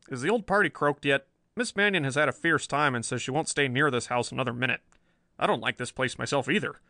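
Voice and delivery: a touch of jittery policeman; uneasy, rising complaint; nervous Riley. Acted.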